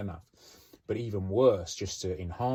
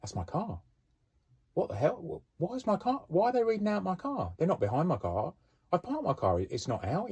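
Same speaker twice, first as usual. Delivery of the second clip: panicked car owner; 11 semitones higher than usual. Retold or imitated. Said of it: "they go".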